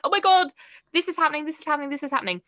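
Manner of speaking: excited chatter. Retold or imitated. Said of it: "jumped at the chance".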